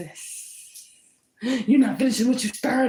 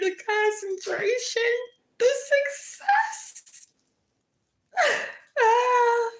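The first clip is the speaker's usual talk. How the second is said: mock weepy envy; 2 semitones higher than usual. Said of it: "Anyway, back in character".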